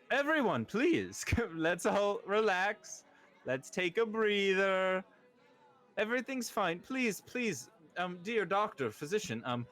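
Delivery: high, showy lord calming his party guests; pompous host. Acted. Lord hushing his party guests, pompous and high. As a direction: boom it out like a vain birthday host.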